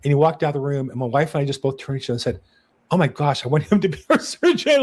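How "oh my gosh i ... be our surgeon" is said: retold delight, laughing through the words; half-laughing, half-amazed. Retold amazed reaction to surgeon.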